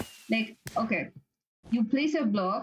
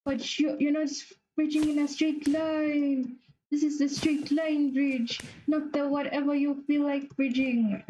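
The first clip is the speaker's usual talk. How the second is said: higher, lightly put-on know-it-all voice; nagging critic; 5 semitones higher than usual. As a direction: mimic a picky viewer correcting you. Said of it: "they're just gonna tell me".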